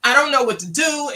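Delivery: rising pitch, mildly distressed retelling; a touch of helpless alarm; retold panic. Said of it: "scaring the hell out of me".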